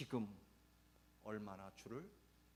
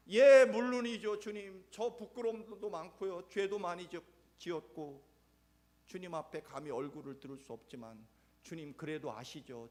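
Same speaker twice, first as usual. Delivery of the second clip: fervent Peter; 8 semitones higher, 14 dB louder than usual. Acted. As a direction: pour out devotion with all your heart. Peter fervently affirming love.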